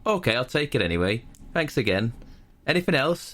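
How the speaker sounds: sing-song mock shopkeeper, lifting at the end; game character's spiel. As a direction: parody cheery, scripted customer service. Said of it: "And he goes".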